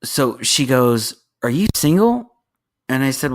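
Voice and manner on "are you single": higher-pitched imitated come-on; mock flirty question, lifted high; flirting woman. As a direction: mimic a forward admirer, pitch raised. Imitates woman asking once more.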